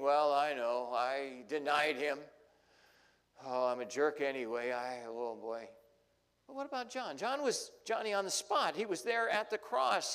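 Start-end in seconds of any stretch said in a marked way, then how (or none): 0.0-5.7 Peter's guilty thoughts. Retold or imitated. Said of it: "I'm sure Peter is thinking".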